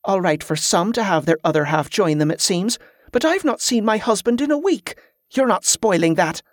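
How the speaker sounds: mildly indignant, rising in pitch; grumble, then put your foot down; aggrieved complaint. Acted. Sullen wife argues with colleague.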